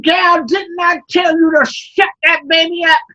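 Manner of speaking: angry overseer. Acted. Overseer yelling at Sarah.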